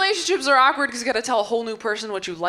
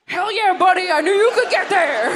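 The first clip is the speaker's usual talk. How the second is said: hyped bro cheer; 8 semitones higher, 4 dB louder than usual. Acted. Bro cheering his friend.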